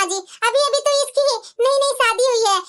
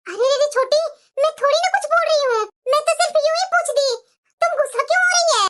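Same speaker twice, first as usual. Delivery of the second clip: higher, sulky and defiant; snappish young bride; 3 semitones higher than usual. Acted. Younger daughter-in-law snapping at mother-in-law, picking a quarrel. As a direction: pick a fight on purpose.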